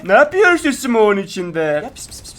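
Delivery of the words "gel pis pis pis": soft whispered kitty call; calling a cat. Pretend.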